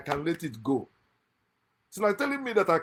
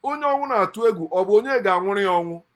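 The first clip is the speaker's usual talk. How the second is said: loud, rapid Igbo saying; raised voice, proverb rattled out; quoting Pericoma; 3 semitones higher, 8 dB louder, faster than usual. Retold or imitated. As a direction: fire off the proverb loudly and fast. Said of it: "I like the way Pericoma say it".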